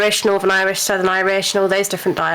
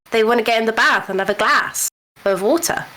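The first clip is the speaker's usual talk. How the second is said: brisk southern English country accent; English farmer accent; 3 semitones higher, faster than usual. Shown as a demonstration. Brit showing friends the southern farmer accent. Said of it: "they all sound like farmers".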